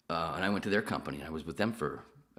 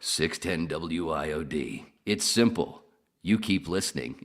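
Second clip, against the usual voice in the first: slow station-ID voiceover, a bit louder; mock radio announcer pushing the listener; slow jingle read with a touch of menace; 4 dB louder, slower than usual. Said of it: "over the voiceover going".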